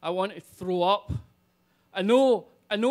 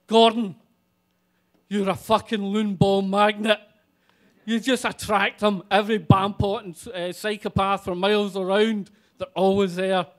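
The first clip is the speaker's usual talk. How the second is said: exasperated rant; 7 dB louder than usual. Retold or imitated. Ranting at friend.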